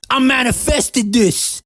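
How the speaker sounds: slow mock boast.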